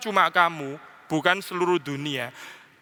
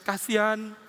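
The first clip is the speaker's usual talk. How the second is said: mock pity; 4 dB quieter than usual. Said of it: "bukan elus-elus Ayub".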